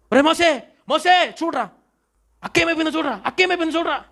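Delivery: high, trembling call to Moses; Aaron begging Moses in fear; frightened plea. Retold or imitated. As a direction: plead with him to look, scared.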